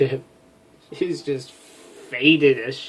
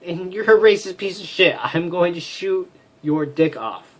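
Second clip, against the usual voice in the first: heated, raised threats; angry threat; 4 semitones higher than usual. Acted. Outraged officer threatens the intruder, heated and raised. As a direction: keep ranting at him.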